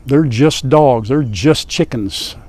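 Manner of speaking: slow, drawn-out mock of a know-it-all; lightly voiced scoffing critic, slowed down; dismissive critic. A hint of a critic saying they're just animals. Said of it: "Somebody's gonna say".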